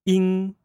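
"ing" held high and level; first tone ing. Shown as a demonstration. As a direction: sustain "ing" on a high flat pitch. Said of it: "Let's say that again".

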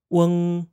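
"weng" with a short uh vowel into ng; Mandarin final weng. Shown as a demonstration. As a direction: model "weng" slowly. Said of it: "this final sounds like".

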